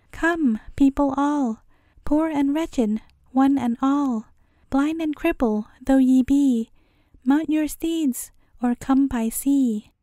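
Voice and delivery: slow, stately herald's call; royal proclamation. A narrator's reading. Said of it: "this proclamation should be made".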